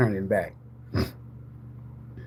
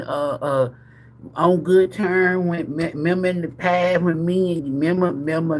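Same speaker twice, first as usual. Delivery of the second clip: stammering confessor, acted; 3 semitones higher than usual. An ex explaining about a child, mock stammering excuse. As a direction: stumble through a hammed-up, roundabout confession. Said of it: "it's gonna be about a child".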